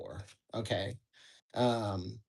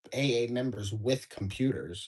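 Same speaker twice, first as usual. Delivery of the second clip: musing reread; 2 semitones lower than usual. Shown as a demonstration. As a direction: mull the phrase over with a wry point to make. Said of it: "that's everybody pretty much nowadays".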